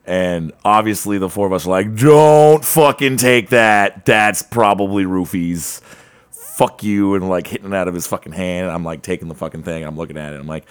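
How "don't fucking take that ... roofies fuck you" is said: slow, louder emphatic warning; mock yelled warning. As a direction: bark it at the stranger. Friends yelling warning at guy.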